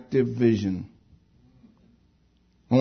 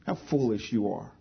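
soft, lower-key rebuke without meanness; gentle correction; 3 semitones lower, 7 dB quieter than usual. Retold or imitated. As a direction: correct kindly, not putting them down. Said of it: "Not mean. Not to put me down".

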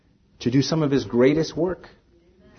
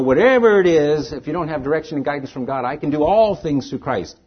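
mocking foolish boast; 4 semitones higher, 5 dB louder than usual. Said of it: "it's a little bit foolish to say".

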